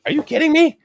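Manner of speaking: very high mock mom squeal of disbelief; mom's disbelief. Mimicking mom hearing about no socks, high squeal. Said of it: "She's like".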